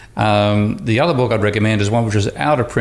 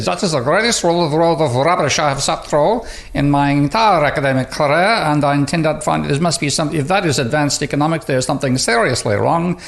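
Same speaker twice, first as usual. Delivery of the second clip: a self-confessed bad Austrian accent, pitched higher; imitating a blunt Austrian professor in a clumsy Austrian accent; 5 semitones higher than usual. Blatt dismissing an economics talk, in a clumsy Austrian accent. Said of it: "my very bad attempt at an Austrian accent".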